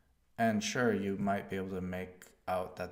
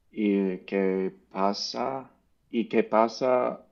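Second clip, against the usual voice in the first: loud, drawn-out rehearsal of Spanish phrases; loud practice; 12 dB louder than usual. Shown as a demonstration. Learner drilling Spanish aloud, loud and deliberate. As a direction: belt the phrases out while practising.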